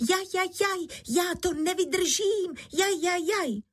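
high yelping cries of a burning head; crying out in pain. A narrator's reading. Bára buried to her neck cries as the candle burns, high yelps of pain. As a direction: yelp as the candle burns you. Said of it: "že se dala do křiku".

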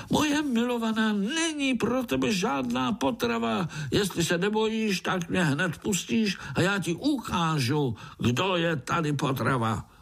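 high squeaky fly challenging; indignant fly groom. A narrator's reading. Fly groom challenges Pája, high squeaky. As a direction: puff up like a brave tiny fly.

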